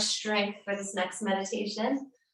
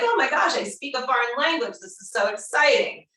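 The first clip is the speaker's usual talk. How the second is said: excited discovery; 4 semitones higher than usual. Retold or imitated. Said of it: "suddenly you're like".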